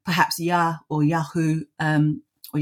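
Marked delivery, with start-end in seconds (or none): 0.4-1.6 Yahu said YAH-hoo; possible ancient pronunciation. Shown as a demonstration. Scholar offers interviewer possible forms of the name, tentative pronunciation. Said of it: "how his name was pronounced".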